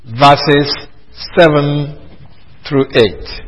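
measured, word by word, with pauses; slow repeat. Real, not acted. Preacher repeats the verse reference for listeners, slowly and spaced out. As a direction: pause after "verses" and after "seven".

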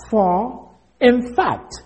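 "in fact" drawn out slowly, set apart after "For"; emphatic IN FACT. Shown as a demonstration. Teacher showing how the translation will sound, emphatic. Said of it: "This is the way it will sound".

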